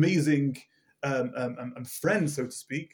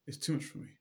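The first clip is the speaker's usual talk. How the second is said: "It's too much for me" breathed out unvoiced; whispered echo; 9 dB quieter than usual. Yankele repeating his burden to the Rebbe in a whisper. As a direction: let the repeat fade to a whisper of exhaustion. Weary water carrier repeats.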